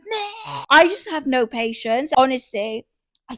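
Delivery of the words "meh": frustrated grunt. Retold or imitated. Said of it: "shaking the steering wheel, going".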